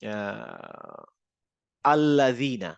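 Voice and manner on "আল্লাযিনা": teacher demo of আল্লাযিনা; demo word. Shown as a demonstration. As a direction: sound out আল্লাযিনা carefully, Arabic z. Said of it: "ধরেন আমি বললাম হচ্ছে".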